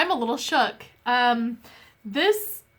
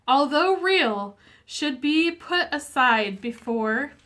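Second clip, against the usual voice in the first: emotional reading. Real, not acted. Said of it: "I'm gonna get a little emotional here".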